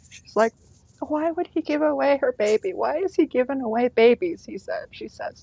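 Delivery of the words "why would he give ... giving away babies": mock weepy, high, tearful, crying pleading voice. Retelling what the crying mom asked about the baby: imitating mom crying. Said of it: "my mom's just was crying".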